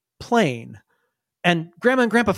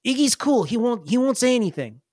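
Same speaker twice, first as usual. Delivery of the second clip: put-on confiding kid; 5 semitones higher than usual. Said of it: "He's like".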